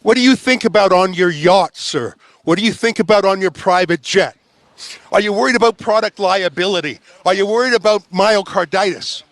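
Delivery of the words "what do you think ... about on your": loud, pressing question; shouted question. Real, not acted. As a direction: call it out over the crowd.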